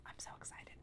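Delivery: excited secret whisper. Real, not acted. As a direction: hush it like a secret. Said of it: "I have to whisper it".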